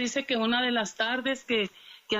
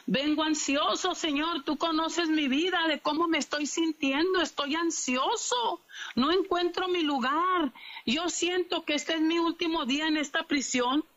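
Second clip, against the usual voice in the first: acted anxious plea, pitched higher; raised, urgent praying voice; anxious prayer; 5 semitones higher than usual. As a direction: plead to God like an overwhelmed prisoner. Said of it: "se sentía tan ansioso".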